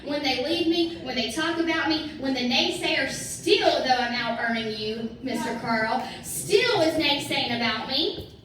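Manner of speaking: loud, fired-up preaching; rising preach. Real, not acted. Preaching to the crowd.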